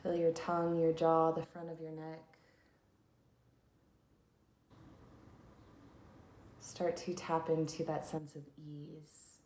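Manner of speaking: unhurried instructions for settling into stillness; guided meditation. Acted. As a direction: lead listeners into calm, leaving long pauses.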